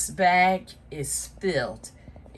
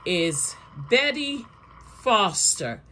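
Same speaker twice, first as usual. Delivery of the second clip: hyped giveaway announcement; 5 semitones higher than usual. Real, not acted. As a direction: build suspense, then announce the winner. Announcing first place winner.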